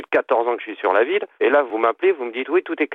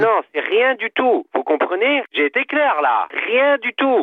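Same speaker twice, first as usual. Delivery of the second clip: 1 exasperated high insistence; 8 semitones higher, slower than usual. Real, not acted. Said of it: "vous avez quand même vachement l'accent allemand".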